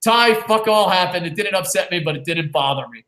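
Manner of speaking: slowed, each word spelled out for the record; slow deliberate reread. Shown as a demonstration. Host rereading a viewer's comment for the record, slow and deliberate. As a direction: read it out slowly and deliberately so it can be timestamped. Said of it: "someone timestamp this later on".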